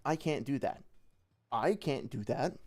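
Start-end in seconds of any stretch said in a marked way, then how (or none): 1.5-2.6 "I" stressed and drawn out, rising end; slow, with emphasis on "I". Shown as a demonstration. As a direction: punch "I", as if someone else could. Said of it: "I put an emphasis on a different word".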